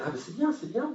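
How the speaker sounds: lukewarm approval. Retold or imitated. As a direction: imitate a half-convinced charity worker brushing you off. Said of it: "mitigé, on va dire".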